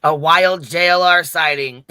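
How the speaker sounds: slow, loud Australian nature-show voice; Australian accent. Pretend. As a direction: drawl it like an Aussie wildlife host. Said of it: "you do a good Australian voice".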